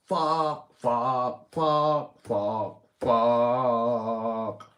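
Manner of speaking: loud string of curses; frustrated swearing. Real, not acted. Ranting at the police on stream, loud exasperated swearing. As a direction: spit each one out in frustration.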